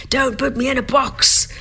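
high-pitched, playful cry of protest; mock protest. Voices own protest against being labelled.

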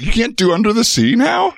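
high-pitched mock disbelief; can you believe this, high comic outrage; incredulous retort. Retelling his retort to a critic.

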